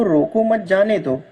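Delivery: "रोको मत जाने दो" run together with no pause. Shown as a demonstration. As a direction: read "रोको मत जाने दो" as one unbroken phrase. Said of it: "कहीं कोई विराम नहीं है".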